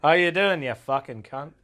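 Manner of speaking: lightly put-on Australian accent; Australian accent impression. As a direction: greet like a mock Australian. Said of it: "don't do an impression of my accent".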